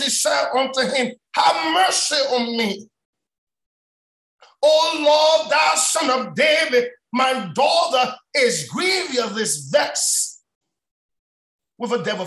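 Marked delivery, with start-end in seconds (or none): 1.3-12.3 preached cry for mercy, raised at the start; mild imitation of a woman crying out; crying plea. Woman crying out to Jesus for her daughter, pleading. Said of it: "a crying voice".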